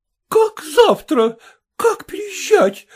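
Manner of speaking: high, tearful, faltering questions; an old princess in shock and panic; trembling high old woman's cry; stammering with agitation. A narrator's reading. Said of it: "заикаясь от волнения".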